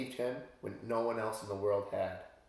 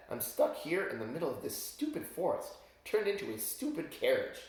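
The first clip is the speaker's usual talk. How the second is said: frog prince voice; 3 semitones higher than usual. Acted. Prince laments as carriage.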